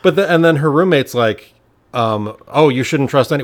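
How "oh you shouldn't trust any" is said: put-on New York accent. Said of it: "with a thick New York accent".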